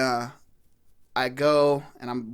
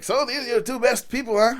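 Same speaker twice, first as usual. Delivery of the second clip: higher-pitched teasing question; put-on, raised-pitch jibe; retold pub ribbing; 9 semitones higher, 3 dB louder than usual. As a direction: imitate a pub regular needling a foreigner. Retold pub regular teasing him.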